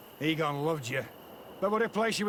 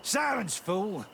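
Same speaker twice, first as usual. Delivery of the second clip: angry outburst; slower than usual. Acted. Gang boss silences the stammering servant, angrily. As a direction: cut him off with contempt.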